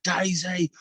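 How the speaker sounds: high, drawn-out angry-dad shout; stern summons. Retold or imitated. Dad calling kids for a secret treat, mock-angry shout. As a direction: holler for the kids as if they're in trouble. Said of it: "call 'em like they're in the shit".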